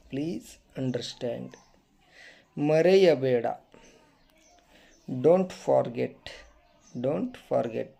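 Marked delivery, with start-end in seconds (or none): 0.1-1.5 slow model. Shown as a demonstration. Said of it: "teacher models English phrases". 5.1-6.2 very slow and a bit louder; slow emphatic model. Shown as a demonstration. Teacher drills the phrase for students, slow and firm. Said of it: "teacher models English phrases".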